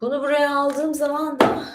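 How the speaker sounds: ordinary talk, nothing marked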